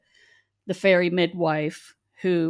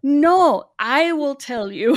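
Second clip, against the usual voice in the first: much higher, louder mock voice of his wife; imitating the wife; 9 semitones higher, 8 dB louder, slower than usual. The wife cutting in so she won't learn the spices from him, in a high loud mock voice. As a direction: playfully put on the wife's high, emphatic voice. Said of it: "and she's like".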